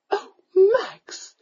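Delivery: a mother scandalised by her son; shocked gasp. A narrator's reading. Countess to her son, a shocked cry. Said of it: "the Countess gasped".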